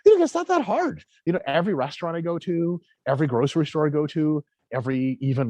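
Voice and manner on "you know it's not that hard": casual shrug. Retold or imitated. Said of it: "They honestly go".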